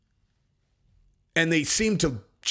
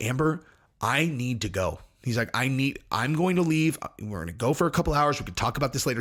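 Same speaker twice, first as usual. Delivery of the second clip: completely calm. Retold or imitated. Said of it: "he is completely calm, completely sober".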